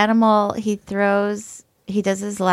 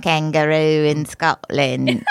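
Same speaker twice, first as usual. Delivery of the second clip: lower-pitched Aussie kangaroo attempt; Australian accent; 5 semitones lower than usual. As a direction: try a shaky-quality Australian accent as a kangaroo. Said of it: "I can't do an Australian accent very well".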